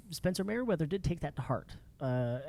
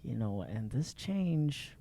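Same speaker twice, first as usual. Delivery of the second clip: grave build-up; 2 semitones lower, 5 dB quieter, slower than usual. Retold or imitated. Teasing grave build-up before good news.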